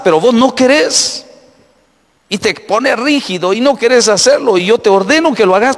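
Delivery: regaño alto y fuerte, cada vez más encendido; cabeza regañando. Acted. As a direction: reprende al dedo rebelde con fuerza creciente. (la cabeza regaña al dedo rebelde, en tono alto y enojado)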